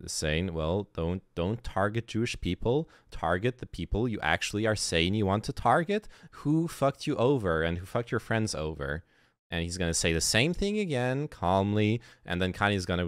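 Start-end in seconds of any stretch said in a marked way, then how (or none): 0.5-9.0 calm, reasonable voice; Lex Friedman. Retold or imitated. Streamer retells the interviewer pushing back on Kanye, calm and measured. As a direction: lightly imitate a patient interviewer, evenly. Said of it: "Lex Friedman very calmly".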